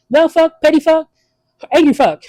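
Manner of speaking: put-on high, lightly accented pitch-woman; a hammed-up accented saleswoman; mock Asian lady. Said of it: "an Asian lady".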